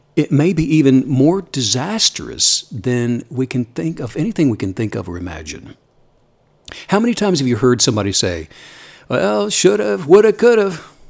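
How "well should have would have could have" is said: put-on hometown regional accent, pitched up. Quoting what people often say, in a put-on regional accent. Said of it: "with the accent and everything?".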